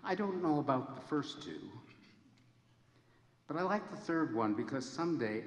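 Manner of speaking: quoting Carol. Retold or imitated. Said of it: "And then she said".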